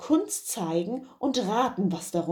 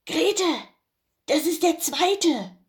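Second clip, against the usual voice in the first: Bauer; 8 semitones higher than usual. Acted. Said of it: "stieß der Bauer seine Frau an".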